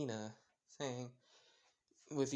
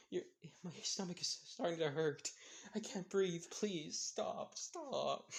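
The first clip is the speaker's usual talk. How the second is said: laughed-out pleading; 4 semitones higher, slower than usual. Acted. Jesse laughing too hard at Izuku.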